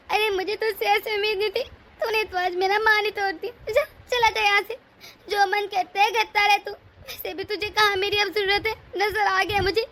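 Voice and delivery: hurt, tearful mother sending her son away; wounded mother, crying and bitter; tearful reproach. Acted. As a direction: let the tears break through the words.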